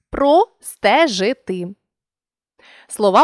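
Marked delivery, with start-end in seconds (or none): 0.1-1.7 простежити said slowly, syllable by syllable; split into syllables. Shown as a demonstration. Teacher demonstrating the rule on простежити, slow syllable split. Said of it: "то всі вони відходять до наступного".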